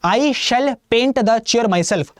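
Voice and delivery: each word very slowly laid out; slow example read. Shown as a demonstration. Teacher reading an example sentence aloud, very slow. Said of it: "reads the example sentence".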